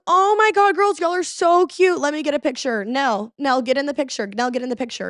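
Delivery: put-on a bubbly party girl begging for a photo; high gushing girl. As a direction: coo over them like a proud friend. Birthday girl gushing at drunk girls.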